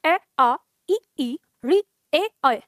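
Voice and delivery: "ए, आ, ई, ई, री, ए, ऐ" sounded out one at a time; vowel demonstration. Shown as a demonstration. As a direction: pronounce each of "ए, आ, ई, ई, री, ए, ऐ" separately. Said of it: "जब हम उच्चारण करते हैं". ("ए, आ, ई, ई, री, ए, ऐ" का अलग-अलग उच्चारण)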